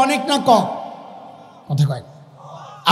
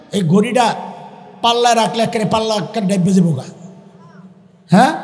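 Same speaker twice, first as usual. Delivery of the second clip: usual speaking voice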